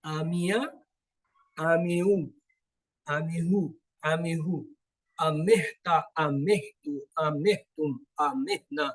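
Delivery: careful Arabic recitation of the forms آمیہ، آمیو، آمیہو with each vowel sounded clearly; correct pronunciation. Shown as a demonstration. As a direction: recite each Arabic form slowly and precisely, like a teacher modeling. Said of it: "میں اس کو صحیح تلفظ سے آپ کے لیے کر دیتا ہوں".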